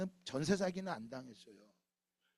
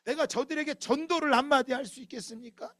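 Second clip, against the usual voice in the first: 항변; 6 semitones higher than usual. Acted. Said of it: "항변하고 있는 거예요".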